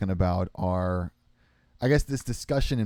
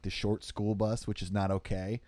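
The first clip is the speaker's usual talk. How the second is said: normal talking voice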